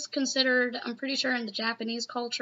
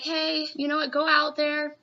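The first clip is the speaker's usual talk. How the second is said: upbeat, slightly higher pep talk; 3 semitones higher than usual. Retold or imitated. Girl boosting Deku before he goes out, encouraging pep talk. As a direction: cheer them on with lifted pitch and push. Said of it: "gives a little bit of a pep talk".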